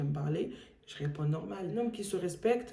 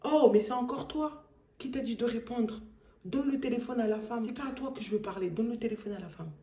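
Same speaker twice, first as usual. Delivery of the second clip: high, pushy mock voice of the caller; 5 semitones higher than usual. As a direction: ape his entitled demand. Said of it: "il était en mode".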